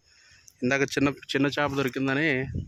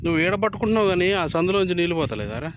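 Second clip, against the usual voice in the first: calling out; 5 semitones higher, 4 dB louder than usual. Real, not acted. Telling the boy where the water leaks, raised call. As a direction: call the instruction out loud across the water.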